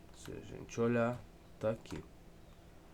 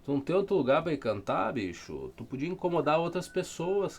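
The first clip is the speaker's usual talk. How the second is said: loud, high-pitched rant at a rooster; indignant outburst, pitch leaping up; exasperated scolding; 4 semitones higher, 11 dB louder than usual. Real, not acted. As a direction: shout at the bird that keeps interrupting. Scolding a rooster that crows mid-lesson.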